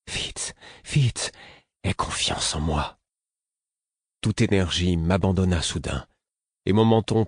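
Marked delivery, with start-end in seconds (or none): 0.1-3.0 pleading. A narrator's reading.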